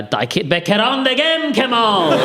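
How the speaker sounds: loud, high Kurdish outburst at Kamal; angry Kurdish. Retold or imitated. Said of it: "a very specific dialect of Kurdish".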